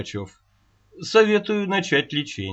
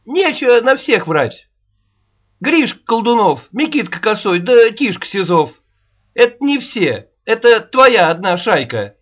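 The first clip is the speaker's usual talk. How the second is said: heated quarrel; 4 semitones higher, 5 dB louder than usual. Acted. Аннушка and Рогачёв quarrel.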